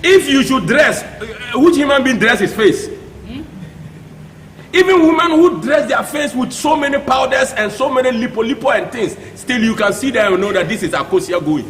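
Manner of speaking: loud, high-pitched scolding; indignant rant. Real, not acted. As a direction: raise your voice in exasperated disbelief. Scolding politicians over dress remarks.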